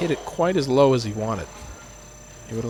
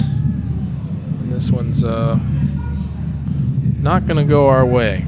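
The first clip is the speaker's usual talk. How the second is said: louder; 6 dB louder, slower than usual. Real, not acted. Commentator reacting to miss.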